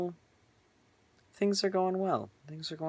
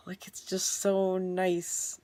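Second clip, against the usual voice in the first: contented whisper; 6 semitones higher, much slower than usual. Real, not acted. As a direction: breathe it out, barely voiced, savouring it. Whispers joy about transition.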